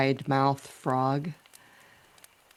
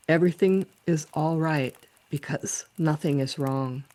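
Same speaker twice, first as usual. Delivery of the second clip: poem recitation. Acted. Poet sharing her frog poem, measured recitation. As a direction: recite with lilting, lifted phrase openings.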